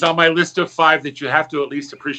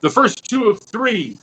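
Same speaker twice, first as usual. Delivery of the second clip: storybook rhyme reading; 2 semitones higher than usual. Acted. Uncle R J reading his rhyming story to the audience, lilting narration. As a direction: read it like a bedtime verse.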